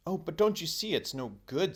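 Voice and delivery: eager protest. Acted. Diggory protests excitedly.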